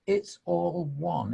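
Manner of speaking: "It's all one" drawn out slowly, leaning on "all"; slow reflective repeat; slow, savoured. Shown as a demonstration. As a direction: let "It's all one" sink in, unhurried.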